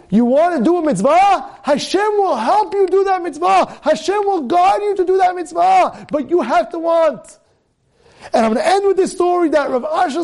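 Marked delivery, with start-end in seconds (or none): 1.6-7.4 rousing preaching. Acted. Preacher's climax.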